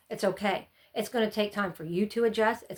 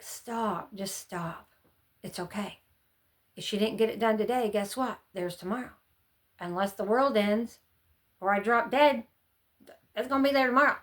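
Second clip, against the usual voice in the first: calming self-talk. Retold or imitated. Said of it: "And it was like".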